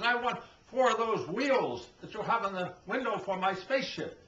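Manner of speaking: a small spaceman asking politely; little spaceman voice. Acted. Alien customer in a deli.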